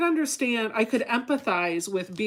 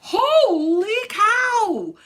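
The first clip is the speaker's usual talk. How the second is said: laughing exclamation; 13 semitones higher, 9 dB louder, much slower than usual. Real, not acted.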